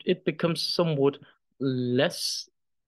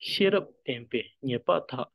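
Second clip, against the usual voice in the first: "Shirap, tempe, nyepa, tha" as separate words; each word of "Shirap tempe nyepa tha" given its own weight; emphasis on each word. Shown as a demonstration. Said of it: "my emphasis is only pronouncing a".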